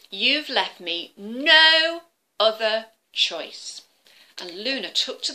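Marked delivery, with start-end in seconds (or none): 0.1-3.8 slow, deliberate threat; grave warning. Acted. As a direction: weigh every word. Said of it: "Luna warns dragon".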